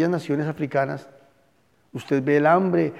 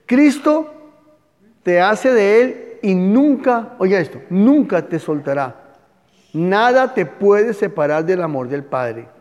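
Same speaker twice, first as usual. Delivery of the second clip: fervent proclamation; 3 semitones higher, 5 dB louder, slower than usual. Real, not acted. Pastor assuring the congregation that Christ never lets go. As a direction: proclaim it like a promise.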